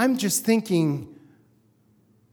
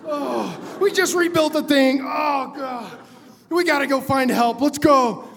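mock despair, sighing between complaints; stressed-out groaning. Pilot fretting over investigation and costs, stressed out. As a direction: groan and fret, head in hands. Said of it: "he turns into a stress case".

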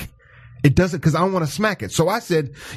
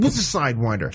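imitating her puzzled question; 6 semitones lower than usual. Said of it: "She goes".

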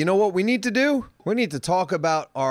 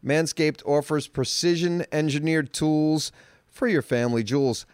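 ad read; slower than usual. Acted. Reads sponsor ad.

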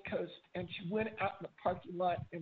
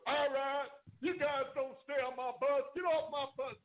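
drill sergeant bark; 4 semitones higher than usual. Retold or imitated. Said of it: "And Drill Sergeant Royston goes".

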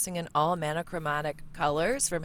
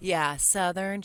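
Southern; 2 semitones lower, slower than usual. Shown as a demonstration. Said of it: "I can give you that real drawl".

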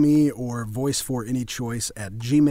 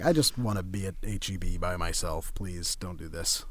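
awkward plea; 9 semitones lower, 9 dB quieter than usual. Retold or imitated. Retold awkward reluctance.

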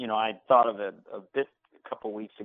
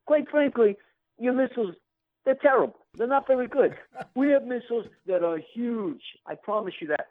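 Donald Trump impression; 12 semitones higher than usual. Shown as a demonstration. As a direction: brag like Trump facing Putin. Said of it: "Everyone wants Trump in a room with Putin".

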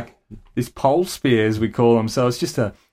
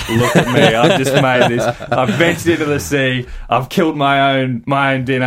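mock proud alpha male boast; alpha male swagger. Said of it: "walking up the beach like alpha male".

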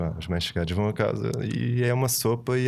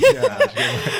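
high laugh through the words; 6 dB louder than usual. Real, not acted. Laughing agreement.

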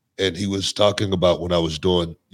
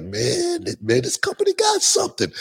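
thrilled by the sold-out crowd; excited amazement. Retold or imitated. Remembering hearing the fans chant his name, high and thrilled. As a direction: voice flies high with delight. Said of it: "And I was like".

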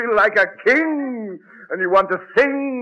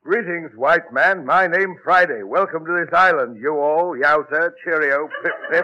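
mock native dialect; 3 semitones lower than usual. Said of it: "what kind of dialect is that".

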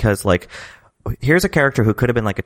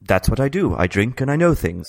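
quoted line; 3 semitones higher than usual. Retold or imitated. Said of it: "What's your line".

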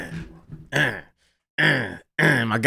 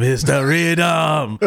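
slow rhythm; 2 semitones higher, much slower than usual. Retold or imitated. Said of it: "He's like".

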